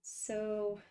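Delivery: talking while holding breath; strained, breath held in. Real, not acted. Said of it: "holding my breath as I'm doing this".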